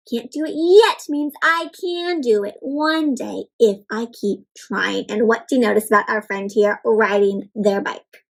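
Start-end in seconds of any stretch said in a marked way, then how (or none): 0.1-5.1 gentle, sing-song storybook reading; reading to children. Acted. Teacher reads the book aloud to the class, sing-song. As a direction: read it like a picture book for little ones.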